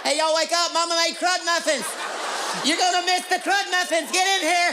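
hillbilly calling out. Acted. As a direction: call the whole family to breakfast. Calling family to breakfast.

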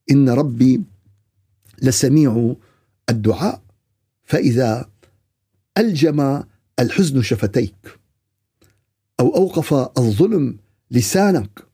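slow, spaced-out formal phrases; solemn sermon recital. Real, not acted. Preacher consoling those silenced by grief, solemn recital. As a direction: recite it gravely with long pauses.

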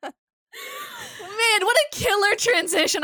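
high whooping "Man"; gleeful shout at own joke; excited shout. Real, not acted. Shouted self-praise.

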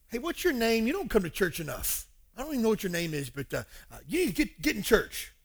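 pushy stranger with jumps in pitch; mock scolding. Stranger telling someone to get to church, mock scolding. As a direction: badger them like a tactless busybody.

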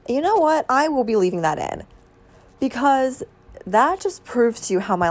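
loud, high and fed up; exasperated outburst. Real, not acted. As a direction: throw up your hands, half laughing. Reacting to brother bursting in.

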